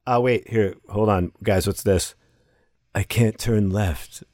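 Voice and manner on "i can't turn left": slow, drawn-out attempt at a New Zealander accent; bad New Zealander accent. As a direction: badly fake a New Zealander accent, word by word. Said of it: "that was my New Zealander accent".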